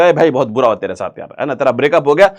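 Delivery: a hint of a friend feigning sorrow; showing sympathy. Shown as a demonstration. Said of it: "जब आप किसी का शोक दिखाते हो".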